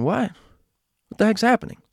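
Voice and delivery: high, startled confusion; bewildered. Retold or imitated. Kids confused by the yelling mother, high startled disbelief. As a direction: sound thrown by the outburst.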